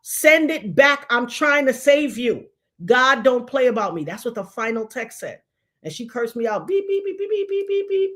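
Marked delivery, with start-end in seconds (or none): 0.0-4.0 slow, raised, louder warning; stern warning. Retold or imitated. Narrator's final text to the girl, slow stern warning. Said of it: "the last text message saying". 6.7-8.1 high repeated censor beeps; censor bleep. Retold or imitated. Narrator bleeping out the girl's cursing, high beeps.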